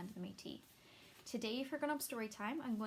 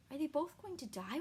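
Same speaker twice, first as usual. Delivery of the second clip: wailing; 4 semitones higher than usual. Acted. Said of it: "wailed Dandelion".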